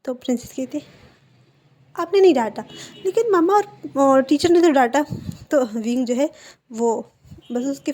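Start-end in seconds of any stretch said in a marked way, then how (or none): 2.0-5.0 put-on higher, louder childish protest; whiny protest. Princess protests loudly to her uncle at dinner, whiny and indignant. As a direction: cry out that she was scolded, like a sulky child.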